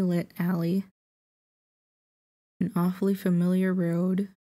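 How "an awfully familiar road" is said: yawning. Real, not acted. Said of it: "I'm already sleepy, I'm yawning".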